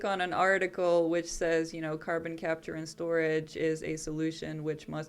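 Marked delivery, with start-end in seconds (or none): 2.1-5.1 flat robotic monotone. Shown as a demonstration. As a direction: read it like a robot voice, no feeling. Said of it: "I'm just saying that in a robotic voice".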